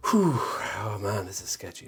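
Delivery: tense, nervous breathy exhale; adrenaline shakes. Real, not acted. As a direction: speak through jittery nerves. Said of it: "my hands are shaking".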